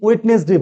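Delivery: ওয়েডনেসডে with every letter sounded, "wed-nes-de"; mispronounced Wednesday. Shown as a demonstration. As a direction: say ওয়েডনেসডে in three parts, d and middle vowel heard. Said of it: "সবচেয়ে বেশি ভুল করি". (ওয়েডনেসডে-র ভুল উচ্চারণ, "ওয়েড-নেস-ডে")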